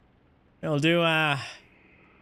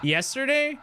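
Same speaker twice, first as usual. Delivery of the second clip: surprised; 11 semitones higher than usual. Real, not acted. Surprised Mother's Day was yesterday.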